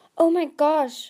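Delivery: very loud, high, sudden blurted outburst. Narrator reads a character's amazed reaction as a necklace moves: blurted out. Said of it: "Tsunami blurted".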